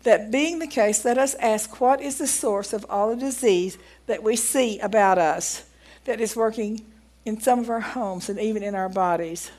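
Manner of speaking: measured, emphatic reading of an account; reading aloud. Acted. Preacher reading a doctor's testimony to the congregation, deliberate read-aloud.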